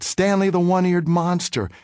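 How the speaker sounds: mock schoolyard jeer, pitched high; sing-song taunt thrown across a yard; taunting shout. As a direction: kid jeering from behind a fence, mild mock yell. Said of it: "I heard him shout".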